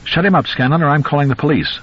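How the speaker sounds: yelling neighbor. Acted. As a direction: yell from across the street. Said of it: "someone yelled".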